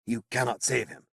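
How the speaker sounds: resigned wizard. Acted. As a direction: accept the fate quietly. Merlin voiced in narration.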